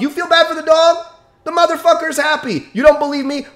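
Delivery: angry scoff. Real, not acted. Angry retort at critics.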